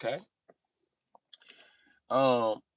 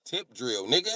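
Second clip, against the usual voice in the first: higher, exasperated repeat; exasperated answer; 5 semitones higher than usual. Retold or imitated. Employee repeating the video's name, exasperated. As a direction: repeat it fed up.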